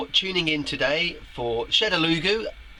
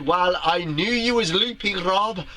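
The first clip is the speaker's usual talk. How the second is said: higher, half-hearted attempt at Welsh; failed Welsh accent; 4 semitones higher than usual. Host reads a comment from Wales, badly faked Welsh accent. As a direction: have a poor go at a Welsh accent. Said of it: "I can't even do a Welsh accent".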